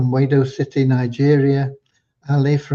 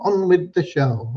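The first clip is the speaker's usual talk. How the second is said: slightly raised, brisker echo of the call; light showman's catchphrase; 4 semitones higher than usual. Retold or imitated. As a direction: toss off the catchphrase lightly, without stretching it. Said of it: "they'd say".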